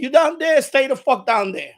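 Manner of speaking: loud, forceful warning; heated retold telling-off; retold angry order. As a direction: order her off, punching the words. Retold ordering neighbor to stay away.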